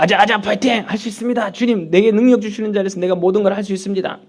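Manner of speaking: rousing self-pep talk; pep cheer. Acted. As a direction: cheer yourself on with confident zeal. Acting out self-confident believer's cheer. (파이팅 넘치는 다짐)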